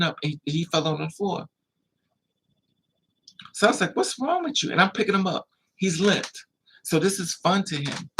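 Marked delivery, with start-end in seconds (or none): 4.0-4.7 high-pitched panicked question, retold; acted alarm. Parent to a boy who fell out, alarmed. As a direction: voice leaps up in mock panic.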